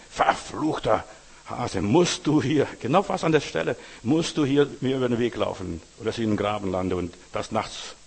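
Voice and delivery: loud, slowed curse at the hare; furious at the hare for the ditch; angry cursing. Retold or imitated. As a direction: driver swearing at a hare after landing in a ditch, angry.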